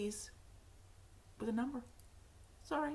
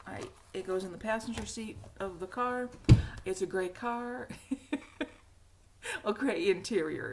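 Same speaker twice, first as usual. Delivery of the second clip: ordinary talk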